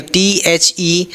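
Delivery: टी एच ई spelled out letter by letter, slowly; slow spelling. Shown as a demonstration. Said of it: "last ई को जैसे भी पढ़ते नहीं है". (टी एच ई धीरे-धीरे अक्षर-अक्षर)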